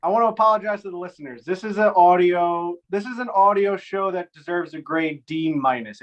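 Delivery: muffled phone line; underwater. Real, not acted. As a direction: talk through bad phone audio. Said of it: "Sounds like you're underwater".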